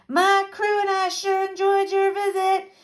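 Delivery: high, sustained holler; shouted farewell. A narrator's reading. Pirate captain leaving, back to Dipper, high holler. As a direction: call it back across a distance. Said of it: "shouted back to Dipper and the others".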